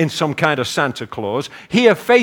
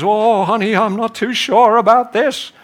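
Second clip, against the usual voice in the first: higher, hesitant husband; gingerly nervous; 4 semitones higher than usual. Acted. Husband stepping onto glass floor, gingerly and unsure. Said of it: "he kind of gingerly steps on and he says".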